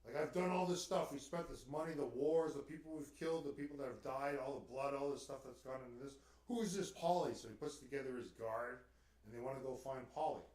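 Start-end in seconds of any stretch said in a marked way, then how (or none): 0.0-7.4 raised, louder exasperated outburst; retelling the Pope's indignant rant; frustrated Pope. Retold or imitated. Pope waking from a dream, indignant, louder. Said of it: "he was so frustrated".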